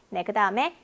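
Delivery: ordinary talk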